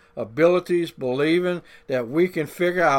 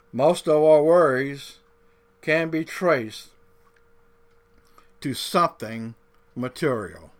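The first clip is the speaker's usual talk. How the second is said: said slowly; 2 semitones lower than usual. Shown as a demonstration. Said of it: "I want to say this slow".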